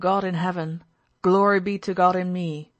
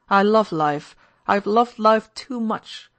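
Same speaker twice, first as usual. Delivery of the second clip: raised, emphatic avowal of love for life; impassioned declaration; 2 semitones higher, 5 dB louder than usual. Acted. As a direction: declare it with swelling fervour. Drunken confession of loving life.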